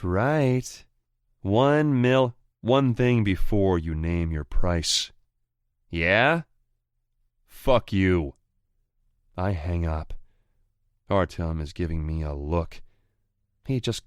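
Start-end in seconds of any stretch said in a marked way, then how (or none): 0.0-8.3 higher, louder cocky sneer; gloating rival voice. Acted. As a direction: rub it in his face. Anton names price, curses.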